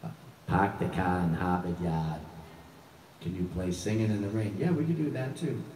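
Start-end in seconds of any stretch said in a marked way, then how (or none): 0.5-2.2 slow, r-less Boston park the car; hammed-up Boston accent, drawn out; playful Boston accent joke; mock Boston accent. Shown as a demonstration. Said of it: "make fun of our Boston accent".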